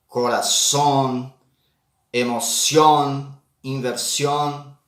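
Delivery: Corazón, emoción, inversión each ending on a clear on; Spanish -ón endings said clearly. Shown as a demonstration. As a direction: stress the final ón of each word slowly. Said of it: "Palavras com terminações em on".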